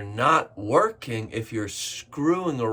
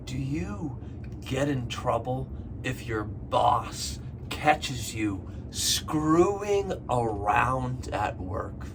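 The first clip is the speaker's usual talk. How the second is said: slow question. Shown as a demonstration. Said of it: "One more time".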